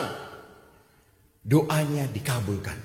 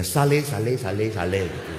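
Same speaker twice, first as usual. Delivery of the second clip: laughing mock sales pitch; 5 dB louder than usual. Real, not acted. Joking about older single women.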